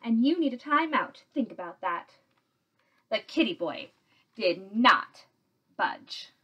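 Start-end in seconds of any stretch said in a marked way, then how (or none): 0.0-2.2 stern mother handing out a punishment; scolding. A narrator's reading. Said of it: "she scolded".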